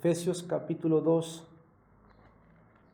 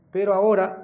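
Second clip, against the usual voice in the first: pero ahora called out much louder; stressed pero ahora; 7 dB louder, faster than usual. Real, not acted. Preaching Paul's contrast, pero ahora rings out loud. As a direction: hit ahora like a proclamation. Preacher repeats the key phrase.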